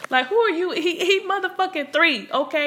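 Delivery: high, loud, laughing indignation; laughing rant. Real, not acted. Laughing rant at rude parents.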